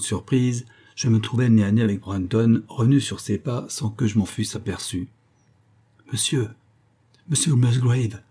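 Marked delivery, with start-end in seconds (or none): 6.1-8.2 a mild tremor of distress in the plea; lightly voiced, shaken butler begging; understated emotional tremble; trembling with emotion. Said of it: "d'une voix tremblante d'émotion".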